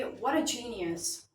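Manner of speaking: slow admiring "What a genius", leaning on "a" with a falling tune; exclamatory tone. Shown as a demonstration. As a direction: marvel at it slowly, a mild teacher's wow. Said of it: "using an exclamatory tone".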